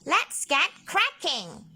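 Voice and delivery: high, bright octopus beaming; rally the team; enthusiastic. A narrator's reading. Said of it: "Ollie beamed enthusiastically".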